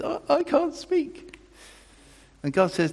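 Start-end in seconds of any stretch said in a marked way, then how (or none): 0.0-1.4 high, slow, humble sigh of a line; meek admission. Retold or imitated. Moses humbly admitting to God he can't speak. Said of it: "He kind of probably says".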